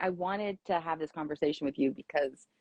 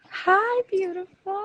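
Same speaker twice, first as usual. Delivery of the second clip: high, bright hello to a friend; excited greeting; 4 dB louder, slower than usual. Real, not acted. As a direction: greet her with delight. Greeting guest joining live.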